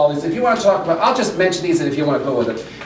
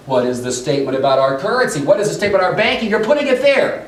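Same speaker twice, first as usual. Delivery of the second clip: mock the complaint, quick and rising; annoyed Russians quoted. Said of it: "this ticked off Russians".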